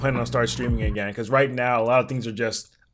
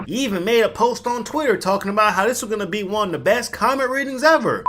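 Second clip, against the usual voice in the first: much higher, squeaky put-on voice; 8 semitones higher than usual. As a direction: squeak it out high. High put-on voice.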